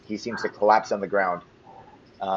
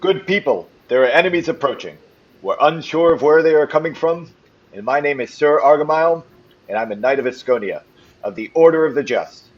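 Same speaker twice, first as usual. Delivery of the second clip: louder, higher knight's battle address; rallying yell; 3 semitones higher, 5 dB louder than usual. Acted. Sir Argyle rallies the townsfolk against approaching enemies, rallying yell. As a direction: call out to rally the troops before battle. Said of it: "he's gonna yell".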